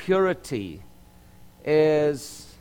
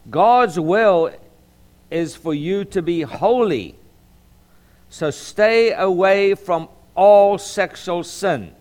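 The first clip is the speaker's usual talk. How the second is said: emphatic scripture reading, key phrases raised; Southern Baptist preacher; 3 semitones higher, 6 dB louder, slower than usual. Real, not acted. Pastor reading Paul's teaching to his congregation, emphatic preaching. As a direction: preach the verse with weight. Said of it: "I sound like a Southern Baptist preacher".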